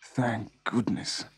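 slow, relieved murmur; sighing with relief. A narrator's reading. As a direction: let it out slowly with relief. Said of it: "He sighed with relief".

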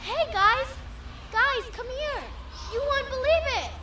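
eager call across the yard. Acted. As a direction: shout them over, eager. Calling friends over with news.

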